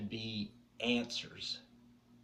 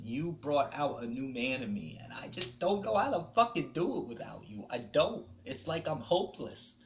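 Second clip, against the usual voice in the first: higher, breaking, louder voice calling to her; tearful plea; 4 semitones higher, 4 dB louder than usual. Real, not acted. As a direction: cry out to her that you're lost. Speaking to late girlfriend, crying.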